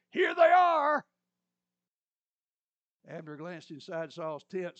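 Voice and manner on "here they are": loud, high, gleeful taunting shout; hollering. Acted. David showing off Saul's spear, gleeful hollering. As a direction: crow it across the hills, louder as you go. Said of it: "David hollered a little bit more".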